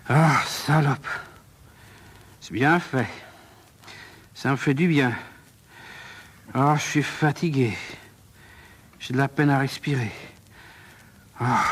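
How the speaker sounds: spent killer catching his breath; exhausted, panting after exertion; labored breathing. Acted. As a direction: speak in short bursts between heavy breaths. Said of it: "Il respire péniblement".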